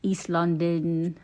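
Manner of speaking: slow, drawn-out East London accent; Cockney accent. Shown as a demonstration. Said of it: "Like Cockney or whatever".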